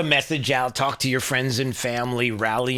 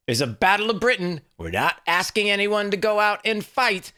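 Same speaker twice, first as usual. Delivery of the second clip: mock rally shout, pitched up; imitating rally speaker; 8 semitones higher than usual. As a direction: ham up the speech like the rally leader. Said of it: "He said".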